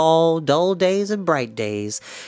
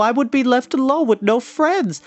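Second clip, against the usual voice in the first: higher, pleading protest; dismayed piglet; 9 semitones higher, 3 dB louder than usual. A narrator's reading. Wilbur begging the spiders to stay, higher and dismayed. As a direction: plead against being left behind. Pig protests being left alone.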